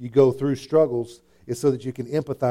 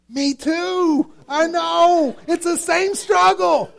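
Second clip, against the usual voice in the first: much higher and louder, laughing; excited agreement; 4 dB louder, much slower than usual. Acted. Preacher playing a parent who also yelled at his kids, laughing. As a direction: blurt it out delighted. Mock reply about yelling at kids.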